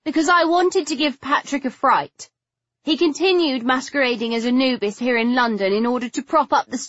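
high, upset, close to tears; voice nearly breaking. A narrator's reading. Figgy accusing Patrick to Stoker, voice nearly breaking. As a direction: pour out the grievance in a high, distressed voice. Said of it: "her voice nearly breaking".

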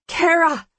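high, loud call; yelling. A narrator's reading. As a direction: shout across the distance. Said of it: "I yell".

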